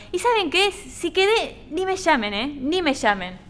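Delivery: fed-up, defiant exit line; defiant dismissal. Acted. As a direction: throw the job back at them. Walks out of audition.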